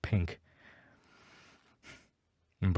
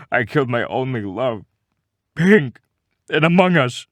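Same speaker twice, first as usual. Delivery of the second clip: mock wailing; 4 semitones higher, 6 dB louder than usual. Crying confession to wife.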